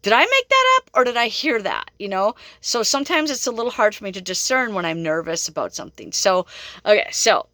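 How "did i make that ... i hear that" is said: thinking aloud in a much higher, bright-pitched voice; high self-questioning. Retold or imitated. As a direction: leap up high as if doubting yourself. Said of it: "and I'm like".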